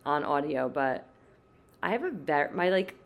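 creaky vocal fry, low and tired. Real, not acted. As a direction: talk with heavy vocal fry. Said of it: "my, like, vocal fry today is very".

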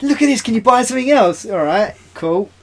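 acted exclamation. Acted bystander in holiday story.

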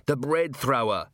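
slow, mildly moaned dread; dismayed moan. A narrator's reading. Thief naming Carrot to his mates, moaning. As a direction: draw it out in a moan. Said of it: "moaned one of the men".

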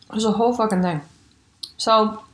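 talking round an ice cube; words around a cube of ice; ice in mouth. Real, not acted. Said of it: "I have to spit this ice cube back".

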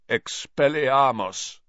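slow, hoarse croak; rough croaking incantation; croaked spell. A narrator's reading. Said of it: "he croaked".

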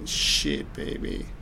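breathless whispered aside; whispering. Retold or imitated. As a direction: whisper it under your breath. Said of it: "Harrison's like".

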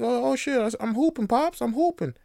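put-on high, bright kid voice crowing; a thrilled little boy showing off; imitating a six-year-old hooping; excited kid. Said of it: "and he's like".

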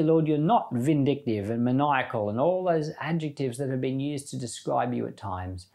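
earnest spoken prayer to the Lord. Acted. Preacher closing the chapter by thanking God, in prayer. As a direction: pray it gratefully, addressing God.

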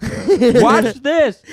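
put-on high excited kid voice; imitating Adam. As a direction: shout it like a show-off kid. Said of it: "he was the watch this kid".

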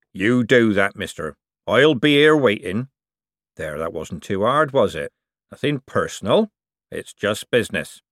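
lightly voiced old craftsman, rough and sly; a canny old seamer talking shop; old forger. Old forger lecturing the young buyer, sly.

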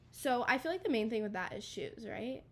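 stuffy nasal voice; talking through a blocked nose. Real, not acted. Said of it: "Sorry, I'm a little nasally".

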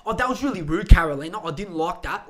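lightly voiced offended girl; imitating Dom. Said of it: "who talks like this".

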